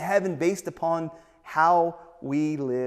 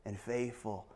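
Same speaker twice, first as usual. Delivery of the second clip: soft, low, trailing to near-whisper; slow down and hush toward the end; quiet, reverent praise; tender commendation; 4 semitones lower, 7 dB quieter, slower than usual. Acted. Jesus commends the faithful believer.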